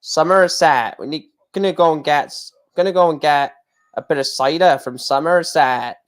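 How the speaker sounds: put-on West Country Somerset burr; mock Somerset cider-drinker accent. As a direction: lean on the Somerset R sounds. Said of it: "You end up sounding from Plymouth or Somerset".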